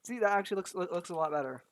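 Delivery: losing my voice; hoarse voice. Real, not acted. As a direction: voice going hoarse. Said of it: "I'm losing my voice".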